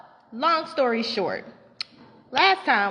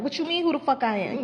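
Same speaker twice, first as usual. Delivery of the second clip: higher-pitched imitation of an indignant comeback; popping off a little; 5 semitones higher than usual. Teacher answering a disrespectful kid, popping off a little. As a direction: act out a mildly heated retort. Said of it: "started to pop off a little bit".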